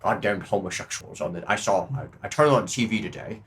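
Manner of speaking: subdued, muttering politician voice; mock presidential grumble. Comic as a president complaining about TV, muted grumble.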